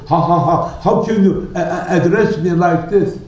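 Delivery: nervous half-laugh, stumbling over the words; mild mock stammer of a shaken official; flustered stutter. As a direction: splutter in shock at the insult. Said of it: "he stuttered".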